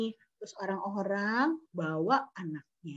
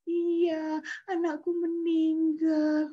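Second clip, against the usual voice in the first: a touch of sorrow, higher and slowed; mildly voiced sad mother; grieving mother; 6 semitones higher, slower than usual. Mother tells friends her son died, mildly sad. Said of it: "mamanya itu suatu hari bersedih".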